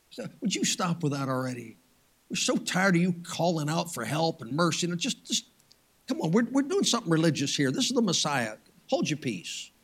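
lightly acted irritated bystander; weary shushing. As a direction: hush a beggar under your breath, softly. Acts crowd tired of the beggars.

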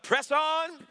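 rally the congregation to shout. Real, not acted. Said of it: "Somebody shout".

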